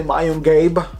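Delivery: gabi as English "gabe"; wrong pronunciation. Shown as a demonstration. Teacher showing learners what to avoid, gabi as "gayb". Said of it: "So don't say".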